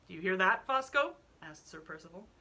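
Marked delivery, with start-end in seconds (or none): 0.1-1.2 loud call. Acted. Sir Percival calls out loudly.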